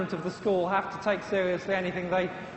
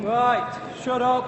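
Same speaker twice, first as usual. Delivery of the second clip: calling the room to order; 5 semitones higher, 4 dB louder, much slower than usual. Real, not acted. Lecturer quieting a chatty class, loud and firm. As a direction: cut through the noise and take charge.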